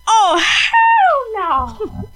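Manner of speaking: high, slow, drawn-out sassy cat protest; hammed-up cat voice, laughing through it. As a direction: play the outraged cat refusing bubbles. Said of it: "That's what she said in her cat voice".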